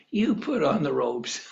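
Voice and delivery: acted line breaking into a laugh; laughing quote. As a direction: say it softly, tipping into laughter. Mocking Ahab's trick, laughing.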